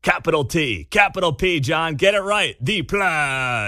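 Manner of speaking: lightly put-on French accent; mock French accent. Host spelling out Harris's phrase to John, mock French accent. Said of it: "by far the French accent".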